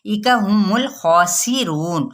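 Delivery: ایکا ہم الخاسرون slow, the ha vowel kept short; slow recitation. Shown as a demonstration. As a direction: recite it slowly without lengthening ہم. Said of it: "ہا کی پیش کو نہ لمبا کریں".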